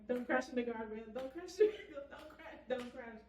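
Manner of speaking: high, slowed pleading with a laugh; frantic pleading. Retold or imitated. Driver retelling her thought as the van swerves, frantic pleading. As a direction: beg the van not to crash. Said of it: "That was my thought".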